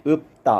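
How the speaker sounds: 읍다 with a stopped ㅂ, no ㄹ; pronunciation demo. Shown as a demonstration. Teacher showing students the representative sound, 읍다 with ㅂ only. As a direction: say 읍다, closing the lips on 읍. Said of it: "피읍이 대표음이 비읍이기".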